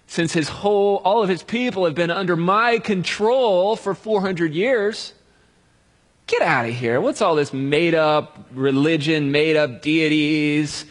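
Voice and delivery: slow, drawn-out royal scoffing; lightly voiced contemptuous king; mock scornful Pharaoh. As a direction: Pharaoh mocking a made-up god. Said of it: "And he's like".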